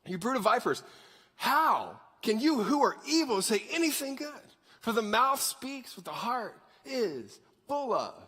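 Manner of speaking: acted fiery rebuke with punched openings; Jesus getting after it. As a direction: go after them, slowing for the last line. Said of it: "he's getting after it".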